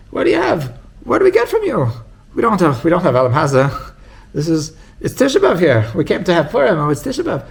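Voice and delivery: high, loud lament of a dour rebbe; a hammed-up gloomy rebbe moaning; gloomy rebbe complaining. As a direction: whine it out like a mournful rabbi who sees only sorrow.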